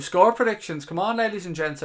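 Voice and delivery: loud, high segment call; hyped announcement. Real, not acted. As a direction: announce it to the chat like a show host. Announcing next segment to chat.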